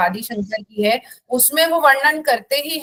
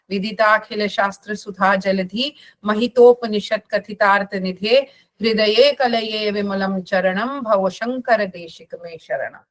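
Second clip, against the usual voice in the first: reciting a hymn; 2 semitones lower than usual. Acted. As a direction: chant the Sanskrit stuti reverently. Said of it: "तो मैं एक स्तुति बोल दूं".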